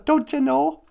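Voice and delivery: Don't you know, rising Minnesota lilt; Minnesota accent. Shown as a demonstration. Host explaining Minnesota talk, Minnesota accent. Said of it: "That's what we say in Minnesota".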